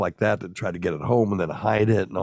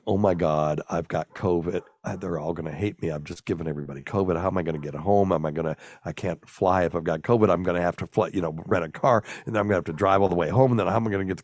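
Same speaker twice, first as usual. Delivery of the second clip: paranoid thoughts; faster than usual. Retold or imitated. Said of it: "I was so paranoid".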